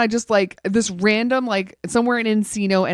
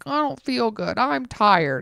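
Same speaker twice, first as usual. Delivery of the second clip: mildly whiny groggy mimicry; mock groggy moaning, on the soft side; groggy complaint; 3 dB quieter than usual. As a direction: imitate a sleepy partner's grumble. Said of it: "he's just being kinda, like, groggy".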